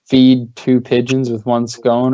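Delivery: slow, deliberate twisted proverb; slow wrong saying. Shown as a demonstration. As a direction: read the mixed-up phrase slowly. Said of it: "or some shit instead of two".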